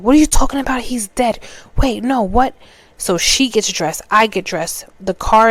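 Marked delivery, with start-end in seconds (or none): 0.0-2.5 a higher, alarmed retold scream from mom, not full volume; mock screaming. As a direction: play the shocked mother, voice jumping up. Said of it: "My mom starts screaming".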